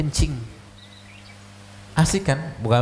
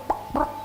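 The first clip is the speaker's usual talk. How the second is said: menirukan bunyi tabrakan; 5 dB quieter than usual. Retold or imitated. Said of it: "ditabrak dari belakang".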